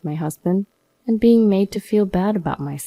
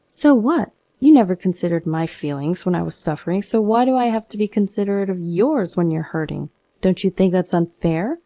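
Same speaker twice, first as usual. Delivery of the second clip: angry retort. Acted. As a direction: hurl it back, fed up. Wife confronts husband angrily.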